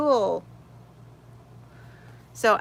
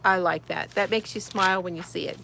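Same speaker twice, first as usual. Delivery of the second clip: ordinary talk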